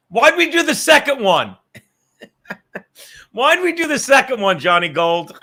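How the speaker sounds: laughing regret; laughing groan. Real, not acted. Laughing about the second shot. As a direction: laugh through the question.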